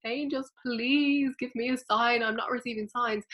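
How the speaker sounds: imitating a needy plea; mock pleading. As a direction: plead with the angels, dragging the words. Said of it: "If you're pleading with your angels".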